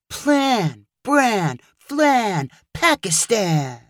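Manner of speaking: slow, musing rhyme list; slowly. Acted. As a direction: drift through the rhymes slowly. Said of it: "he slowly said".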